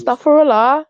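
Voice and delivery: accented, rising at the end; Astaghfirullah in her accent. Shown as a demonstration. Correcting the listener's mimicry, in her accent. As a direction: repeat it in the put-on accent. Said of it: "in your accent".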